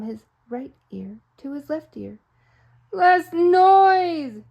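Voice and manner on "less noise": high, loud shout. Acted. Mister Flibbertigibb shouting at the farm animals, loudly. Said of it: "shouted Mister Flibbertigibb".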